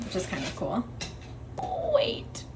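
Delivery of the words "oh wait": a high, breathy whisper to herself as she remembers; sudden whisper. Real, not acted. Remembering one more book, she whispers to herself. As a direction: catch yourself mid-thought in a hushed whisper.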